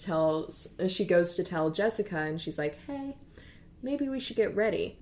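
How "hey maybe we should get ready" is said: higher, softer, careful suggestion; tentative. Retold or imitated. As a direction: broach it gingerly, as if quoting a timid friend. Gently broaching a touchy subject.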